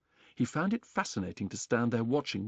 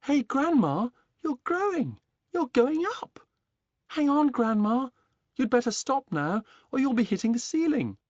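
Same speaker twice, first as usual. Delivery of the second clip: put-on high, loud boy's shout of alarm; 12 semitones higher, 6 dB louder than usual. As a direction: yell up at her in panic. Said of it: "George gave a jump and shouted".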